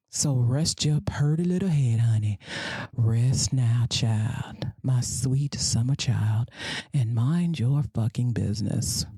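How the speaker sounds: lightly hushed, condescending comfort; mock soothing. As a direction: pat them on the head with your voice.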